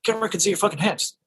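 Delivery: quick, high-pitched mock exasperation; dismissive director. Director overruling actor about the hand, mock impatient. Retold director snapping back.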